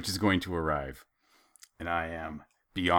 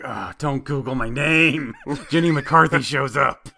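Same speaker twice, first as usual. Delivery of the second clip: laughing plea; 5 semitones higher, 7 dB louder, slower than usual. Retold or imitated. Pleading with uncle, laughing.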